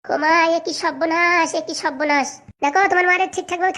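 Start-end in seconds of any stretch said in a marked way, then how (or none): 0.0-2.3 slow, drawn-out cry of dismay; shocked dismay. Acted. Mother-in-law exclaims in slow shocked dismay. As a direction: wail it as if disaster struck.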